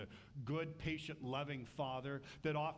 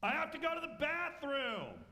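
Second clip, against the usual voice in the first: gruff husband; 10 semitones higher, 5 dB louder than usual. Retold or imitated. Achan answering wife.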